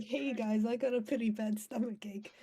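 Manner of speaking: high-pitched mock complaint; high, casual put-on voice; imitating a complaint. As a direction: play-act someone feeling poorly, pitched high. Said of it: "She's like".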